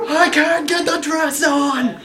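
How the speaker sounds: high, drawn-out helpless cry; hammed-up plaintive holler; mock wail. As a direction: call out slowly in comic distress. Acted wail from bathroom.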